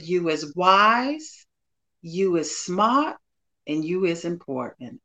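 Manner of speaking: slow, gentle Southern "You is wise" quote, lightly imitated; a hint of a Southern accent, each line drawn out slowly; Viola Davis Southern voice. Guest quoting Viola Davis in The Help, slow light Southern accent. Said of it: "she said in her Southern broken voice".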